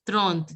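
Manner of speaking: "throne" sounded up to the final T; French pronunciation. Shown as a demonstration. Teacher corrects pupils on French thirty, French pronunciation. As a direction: say "throne" as trente, finishing on T. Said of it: "Till T you have to pronounce".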